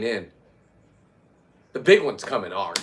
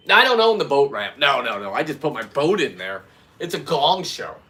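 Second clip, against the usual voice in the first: indignant retort; 4 dB louder than usual. Retold or imitated. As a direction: fend off the blame loudly. Retold argument at ramp.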